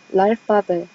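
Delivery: "랄파베" said as French l'alphabet; L run straight into the vowel of "랄파베"; French pronunciation. Shown as a demonstration. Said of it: "이렇게 읽-, 읽어요".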